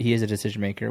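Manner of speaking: usual speaking voice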